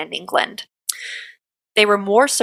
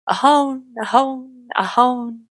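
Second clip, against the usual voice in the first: strange wailing call; 4 semitones higher, slower than usual. A narrator's reading. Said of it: "called out loudly in a strange tone".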